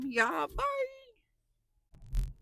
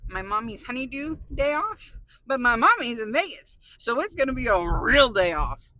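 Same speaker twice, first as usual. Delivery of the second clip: excited; 10 dB louder than usual. Real, not acted. Excited day off.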